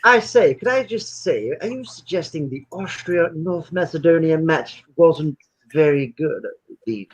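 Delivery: put-on slow, plummy posh British accent. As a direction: put on an upper-class English accent. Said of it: "What is that accent?".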